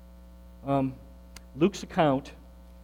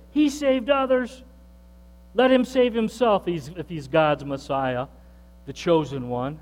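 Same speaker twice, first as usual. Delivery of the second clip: sneering. Retold or imitated. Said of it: "they sneered at Jesus and said".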